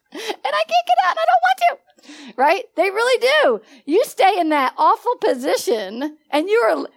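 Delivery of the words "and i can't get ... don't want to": high whispered whine; mock a believer wallowing in suffering; whiny stuck believer. Preacher mimics stuck believers, high and whiny. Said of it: "They're really like this".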